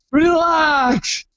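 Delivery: retold, telling a nervous wife to chill; lightly hammed-up reassurance; mock exasperated relax.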